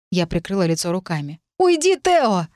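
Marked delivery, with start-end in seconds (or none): 1.6-2.5 very high, upset begging; high, desperate cry; distressed plea. A narrator's reading. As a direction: beg them to go, voice pitched high. Crying, begs him to leave.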